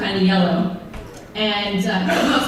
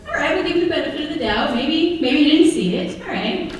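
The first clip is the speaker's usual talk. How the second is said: fast self-talk; 4 semitones higher than usual. Retold or imitated. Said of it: "I'm like".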